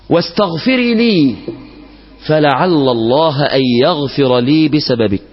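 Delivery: slow, measured classical Arabic storytelling; solemn story narration. A narrator's reading. Preacher telling worshippers an old tale, slow and solemn. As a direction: draw the congregation into the tale.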